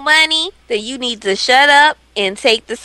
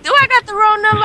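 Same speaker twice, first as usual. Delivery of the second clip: imitating Smoke confused; 10 semitones higher, faster than usual. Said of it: "He was like".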